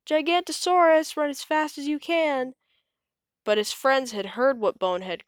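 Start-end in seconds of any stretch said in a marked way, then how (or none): 0.1-2.5 high, loud warning cry; cry of alarm. A narrator's reading. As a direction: yell at them to flee. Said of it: "the cry began".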